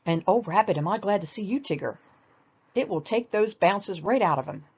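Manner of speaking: lightly voiced fussy Rabbit, pleased with his plan; a hint of smug, eager Rabbit; gleeful Rabbit.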